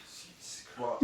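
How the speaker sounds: put-on high, scoffing girl voice; scornful girl. Drunk girl mocking the lad who stays in online. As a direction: sneer it up high in disbelief.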